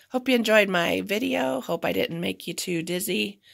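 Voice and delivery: raspy voice. Real, not acted. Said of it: "my raspy voice isn't too annoying".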